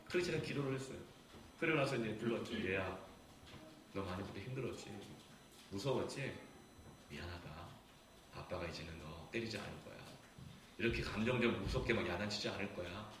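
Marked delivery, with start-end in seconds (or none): 2.7-13.1 soft, low fatherly reassurance; tender apology. Retold or imitated. Father apologizes to son for harsh scolding, tender. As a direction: gently own up and reassure, voice lowered.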